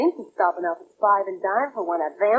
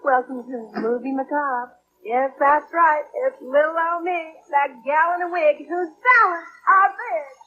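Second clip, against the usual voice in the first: breathy vintage purr; 5 semitones higher than usual. Acted. Horror hostess greeting.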